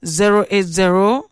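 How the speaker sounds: number read out slowly, digit by digit; slow dictation. Shown as a demonstration. Radio host dictating the WhatsApp number slowly to listeners. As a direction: spell it out slow so listeners can write it. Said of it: "write this WhatsApp number down".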